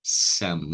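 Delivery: "Some" with short uh and closed M; teacher models "Some" as "sâm"; pronunciation demo. Shown as a demonstration. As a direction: end "Some" on a clear m sound. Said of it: "como é que pronuncia".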